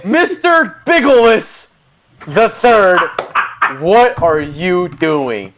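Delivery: high, loud, drawn-out full-name scolding; hammed-up furious wife; outraged wife. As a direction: scold him slowly by his full name. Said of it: "wait for his wife to show up".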